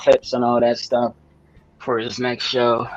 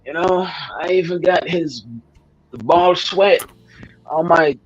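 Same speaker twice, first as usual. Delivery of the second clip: high-pitched voice imitation; 7 semitones higher than usual. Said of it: "He was like".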